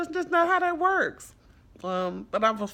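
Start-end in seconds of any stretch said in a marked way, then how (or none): 0.0-1.3 firm quoted reply. Retold or imitated. Telling the foster girl she can't return.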